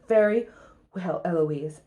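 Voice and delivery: lightly voiced stern tutor; tutor giving up. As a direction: concede stiffly, voice sinking. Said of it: "stands up and says".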